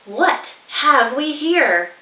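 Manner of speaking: emu voice. Acted. Emu speaks.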